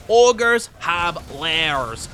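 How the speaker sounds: mangled Shrek line in a loud put-on voice; Shrek impression. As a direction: drag out every word like a big ogre. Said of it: "I wish I could do a Shrek impression".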